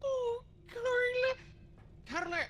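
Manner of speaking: hysterical laugh. Real, not acted. Still laughing helplessly.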